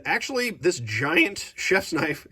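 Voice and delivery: voice cracking. Real, not acted. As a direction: voice cracks mid-phrase. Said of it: "excuse my voice cracking there".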